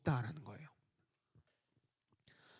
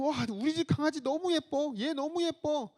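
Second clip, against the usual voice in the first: higher, bubbling delight in the puppy; a child swooning over her own puppy, higher and delighted; gushing over the dog; 5 semitones higher than usual. Retold or imitated. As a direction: gush like you can't contain your love. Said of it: "너무 사랑스러워서 어쩔 줄 모를 만큼".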